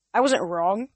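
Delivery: forcing words through pain; strained. A narrator's reading. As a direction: push it out weakly, painfully. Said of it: "Luke managed".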